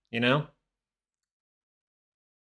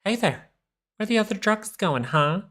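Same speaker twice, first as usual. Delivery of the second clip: Batman voice; 9 semitones higher than usual. Retold or imitated. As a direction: overdo the Badman parody, dragging each word out. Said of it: "the Batman voice".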